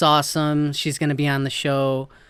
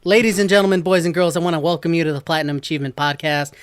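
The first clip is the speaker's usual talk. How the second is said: announcer intro; 3 dB louder than usual. Acted. Host announces the podcast.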